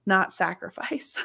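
whispered aside; whispering. Real, not acted. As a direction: drop to a whisper. Wry aside after church point.

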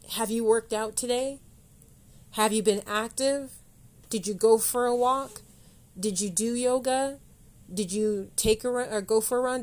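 pointed, challenging questions fired at the listener; mock-accusatory grilling of the listener. Shown as a demonstration. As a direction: call the listener out, one question after another. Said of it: "I'm actually gonna ask this question accusatorily".

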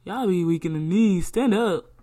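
yelling at yourself through tears; self-scolding shout. Retold or imitated. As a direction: bark at yourself to get up. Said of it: "that's literally what I tell myself".

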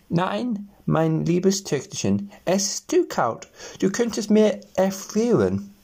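high, fussing mother voice; doting mother. A narrator's reading. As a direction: coo over the spoilt daughter. Mother fusses over her daughter.

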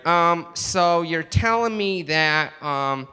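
earnest American trying out foreign phrases; American learner proudly testing new words; American accent. Acted. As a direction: imitate a trusting American tourist. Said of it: "cool to hear an American going".

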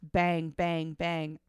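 mimicking bangs. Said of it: "slammed loudly".

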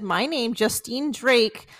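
slow, deliberate, announcing a missing student; intercom announcement. Retold or imitated. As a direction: read it out slowly like over the intercom. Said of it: "I hear on the intercom".

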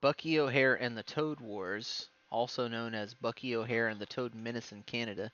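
measured encyclopedia read-out; even, informational reading voice; reading aloud. Real, not acted. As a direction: read it out like a reference entry. Reads out an encyclopedia entry.

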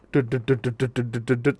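a put-on putter of a revving motorbike; imitated motor noise. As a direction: mouth the engine sound, steady and repetitive. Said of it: "suara bobokan".

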